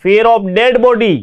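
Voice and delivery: "fear of dead body" said slowly, each word spaced out; slow dictation. Shown as a demonstration. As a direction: read it slowly for students to write down. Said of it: "teacher dictates the meaning". (छात्रों को लिखवाने के लिए धीरे-धीरे बोलिए)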